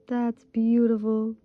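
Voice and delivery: slow, drawn-out admiring; That's beautiful said slowly with admiration; savoured. Real, not acted. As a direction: linger on beautiful in awe. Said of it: "repeats with more feeling".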